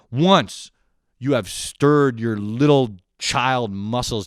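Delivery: slow, emphatic mock-epic delivery; mock-grand speech. Comic telling a juice-making saga, mock-grand. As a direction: build it like a solemn pronouncement.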